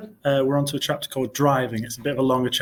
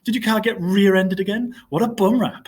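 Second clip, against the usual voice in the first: a hint of a high old lady, joking; lightly voiced old lady, teasing the principal; fake old lady voice; 7 semitones higher, 3 dB louder than usual. A narrator's reading. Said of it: "He was using a fake high old lady voice".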